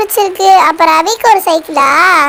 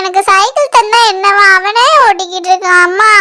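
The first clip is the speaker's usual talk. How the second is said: tearful complaint. Acted. Child complains to mother about brother's bicycle, tearful whining. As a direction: wail your grievance like a sulking child. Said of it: "எதுக்கு இப்படி அழுதுகிட்டு இருக்க".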